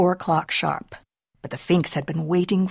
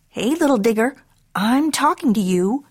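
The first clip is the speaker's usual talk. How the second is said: scolding mama; 4 semitones higher than usual. Acted. Mama scolds her boy.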